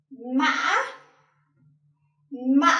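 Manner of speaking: "mã" catches mid-vowel, then jumps up; high broken rising tone. Shown as a demonstration. Teacher showing thanh ngã, high falling and rising. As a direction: break "mã" in the middle and lift it. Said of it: "high falling and rising tone".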